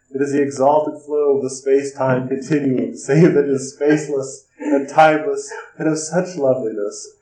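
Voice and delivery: lightly heightened, rapt recitation; impassioned speech reading. Acted. Howard answers his worried colleague, lightly impassioned visionary recitation. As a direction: read it like a revelation building in fervour.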